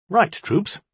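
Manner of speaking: bright, high-pitched rallying call; rally the troops brightly, pitched high. A narrator's reading. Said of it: "I said brightly".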